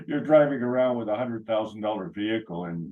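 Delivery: ordinary delivery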